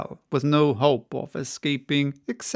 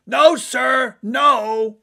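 louder, higher shout through cupped hands; 8 semitones higher, 7 dB louder, much slower than usual. Acted. Stubb shouts his report to Ahab through his hands. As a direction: shout it across to the captain.

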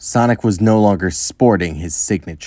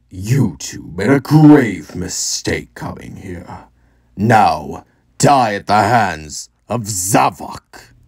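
menacing villain voice; slower than usual. Acted. Villain Zavok threatens heroes.

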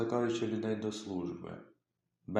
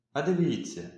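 alarmed call; 5 semitones higher, 5 dB louder than usual. A narrator's reading. Son raises alarm.

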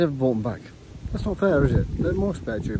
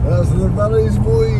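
a hint of a Welsh accent, louder and higher; mock Welsh accent; 8 semitones higher, 8 dB louder, slower than usual. Dad joking in a Welsh accent about the valleys. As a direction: put on a Welsh accent for a moment. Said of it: "Is that a Welsh accent?".

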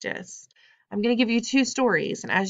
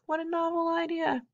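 sarcastic; 10 semitones higher, 4 dB quieter than usual. Real, not acted. Teacher's sarcastic aside to students.

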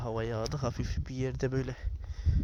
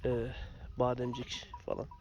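hoarse voice; 6 dB quieter than usual. Real, not acted. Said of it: "Sesim biraz bozuk çıkabilir".

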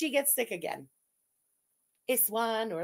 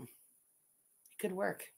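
very slow, much softer, drawn out; slow scheming musing; 4 semitones lower, 10 dB quieter, much slower than usual. Real, not acted. To chat, scheming a birthday party, slow and soft. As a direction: savour each word like a plotter. Slowly considering the idea.

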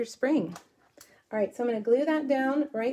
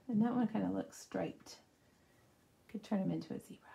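ordinary talk

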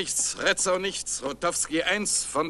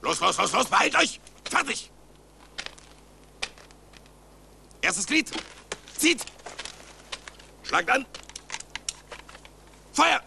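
german drill sergeant; 3 semitones higher than usual. Acted. Musket drill commands to cadets.

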